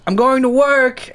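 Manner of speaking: high, slow sing-out; drawn-out high-pitched mock call; mock called-out announcement. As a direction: imitate a roommate calling out on the way out. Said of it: "and she shouts".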